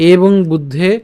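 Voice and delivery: measured Sanskrit line with pauses between phrases; teacher's careful shloka reading; verse recitation. Shown as a demonstration. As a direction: recite deliberately, lifting the phrase endings. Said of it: "আমি আবার প্রথম লাইনটা বলি".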